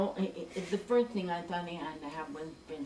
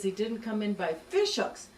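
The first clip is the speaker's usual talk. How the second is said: incredulous; 3 dB louder than usual. Retold or imitated. Incredulous repeat of the punchline.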